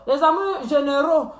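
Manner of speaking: "généraux" landing on a clear O ending; teasing copy of "généraux"; mocked mispronunciation. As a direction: mimic her O ending on "généraux". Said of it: "Et ça, toujours un O à la fin".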